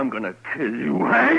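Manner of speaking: threat rising into a high laughing yell; furious threat. Acted. Cam threatens drunk Hank, laughing shout. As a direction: laugh out the threat, then snap the name high.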